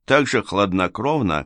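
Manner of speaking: usual speaking voice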